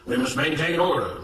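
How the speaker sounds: firm, declamatory statement; proclamation. A narrator's reading. Mister Smith addressing the workers as the whip falls, proclaiming. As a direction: proclaim it to the assembled crowd. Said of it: "Mister Smith proclaimed".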